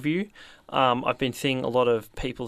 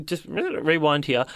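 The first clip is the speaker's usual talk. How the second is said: slow deliberate; 3 semitones higher, much slower than usual. Real, not acted. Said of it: "I just wanna rewind here".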